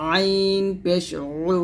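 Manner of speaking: long আইন, then উ squeezed from mid-throat; squeezed ayn. Shown as a demonstration. Teacher showing ayn with pesh, squeezed উ. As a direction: press the throat into a held oo on উ. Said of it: "এরকম উচ্চারণ করতে হবে".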